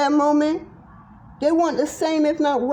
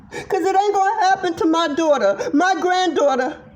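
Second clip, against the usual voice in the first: fierce tearful vow; 3 semitones higher than usual. Real, not acted. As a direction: refuse to let it happen again. Vows to protect her family.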